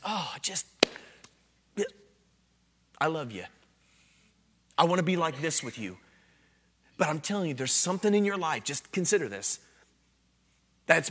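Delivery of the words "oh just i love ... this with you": tender voice of Jesus. Retold or imitated. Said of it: "Jesus comes before you and says".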